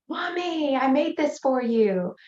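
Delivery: put-on a little girl repeating her plea; daughter's voice. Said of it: "saying it over and over".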